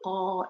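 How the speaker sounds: the "ah" of can't on its own; isolated vowel sound. Shown as a demonstration. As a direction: hold a long open "ah", written R. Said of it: "you'll see my mouth change".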